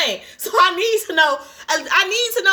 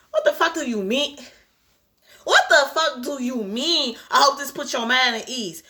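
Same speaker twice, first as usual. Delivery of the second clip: incredulous; 4 semitones lower than usual. Real, not acted. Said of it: "I'm passionate at this point".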